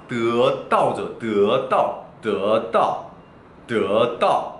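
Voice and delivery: 뜨었다 with "eu" gliding into "eo"; drawn-out vowel glide. Shown as a demonstration. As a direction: say 뜨었다 with both vowels joined. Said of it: "드 뒤에 어자를 좀 붙이죠".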